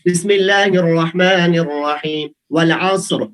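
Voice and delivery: slow, measured tajweed recitation; Quran recitation. Shown as a demonstration. Teacher reciting a verse for the class, slow and measured. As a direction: chant the verse slowly and carefully.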